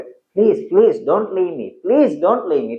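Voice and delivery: repeated pleading please; imploring plea; begging. Shown as a demonstration. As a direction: beg her not to go. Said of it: "request से बोलेगा".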